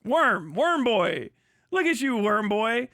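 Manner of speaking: lightly voiced scornful sneer; mocking insult. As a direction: drag out worm boy with contempt. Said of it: "go like".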